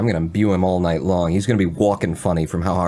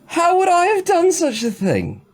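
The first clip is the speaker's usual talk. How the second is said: much higher, loud mock-British accent; put-on accent; 4 dB louder, much slower than usual. The speaker scoffs at the jailer in an overblown British accent. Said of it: "I'm insulting people with this accent".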